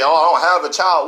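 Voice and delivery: a touch of a dismissive quoted excuse; mock excuse. Speaker quotes listeners' excuse, mildly dismissive. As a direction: shrug it off lightly. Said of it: "So you can say".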